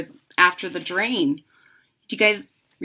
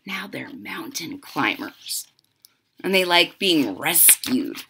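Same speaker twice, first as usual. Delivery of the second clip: whisper; 4 semitones lower than usual. Real, not acted. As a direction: whisper it like a little secret. Aside to children while reading.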